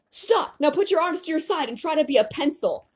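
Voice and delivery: high-pitched urgent orders; called-out instructions. Acted. Leader coaches falling teammates, calling out. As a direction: call out each instruction.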